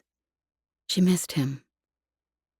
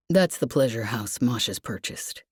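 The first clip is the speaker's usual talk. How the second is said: low, sorry, trailing off; Lev, apologetic; 6 semitones lower than usual. Acted. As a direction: lower male voice, rueful and halting. Lev voiced.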